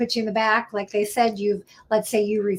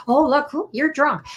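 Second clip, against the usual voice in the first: mocking police; 5 semitones higher than usual. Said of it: "they don't just have you blow once".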